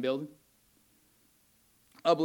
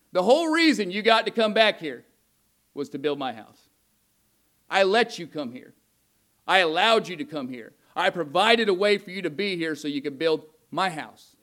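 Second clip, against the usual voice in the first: mild scolding. Retold or imitated. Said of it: "God was hot".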